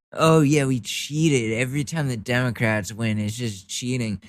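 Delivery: exasperated sarcastic comeback. Acted. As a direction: pretend to admit it with heavy sarcasm. Sarcastic reply to cheating claim.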